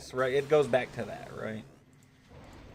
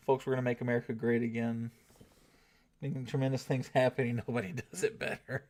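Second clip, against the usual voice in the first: brash rally-speech voice; mock political rally announcer; Trump impression. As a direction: do a hammed-up Trump crowd pitch. Trump impression in stream chat.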